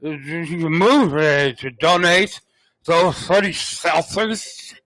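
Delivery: put-on slow, slurred drunk reading. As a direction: drag the words like you're drunk. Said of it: "I gotta do a drunk".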